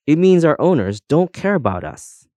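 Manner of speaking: high-pitched tearful complaint. A narrator's reading. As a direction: lament it as if starting to sob. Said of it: "breaking into sobs".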